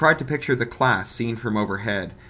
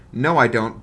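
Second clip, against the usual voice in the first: too quickly; 2 semitones higher, 7 dB louder than usual. Acted. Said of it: "Bug said, too quickly".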